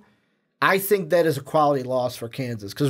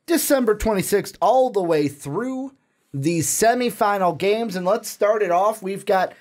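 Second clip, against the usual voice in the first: higher-pitched announcer swing; sing-song presenter delivery; podcast host announcing; 5 semitones higher than usual. Acted. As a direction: kick off the segment like a show host. Hosts the bowl picks segment.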